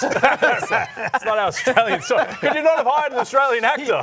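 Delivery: high, loud incredulous protest through laughter; laughing outrage. Real, not acted. Laughing outrage at the bad accent.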